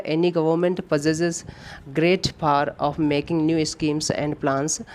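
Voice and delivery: reading the sentence out word by word, very slowly; slow dictation read. Shown as a demonstration. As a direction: spell out the question sentence for students. Reads exam sentence aloud slowly. (धीमी गति से वाक्य पढ़ना)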